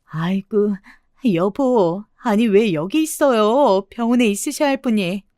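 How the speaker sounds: hammed-up, drawn-out fretting; crying out. Woman posing as his wife, mock crying out. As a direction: call out in mock dismay. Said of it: "큰 소리로 외쳤습니다".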